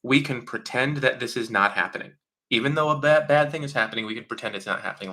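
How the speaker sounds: pat someone on the head while pretending all is fine; mock soothing denial. Mother brushing off a bad thing, mock soothing. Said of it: "they go".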